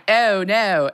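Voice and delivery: lightly exaggerated Maryland "Oh, no"; Maryland accent. Actress shows off her old accent, mock Maryland vowels. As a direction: round the O in a parody Maryland accent. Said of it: "before I lost my Maryland accent".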